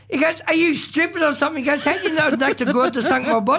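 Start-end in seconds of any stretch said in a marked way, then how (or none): 0.5-1.6 put-on light Scottish accent, Billy Connolly style; a hint of Scottish accent. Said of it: "you're doing a Scottish accent there". 1.8-3.6 put-on light Scottish accent, Billy Connolly style; a hint of Scottish accent. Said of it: "you're doing a Scottish accent there".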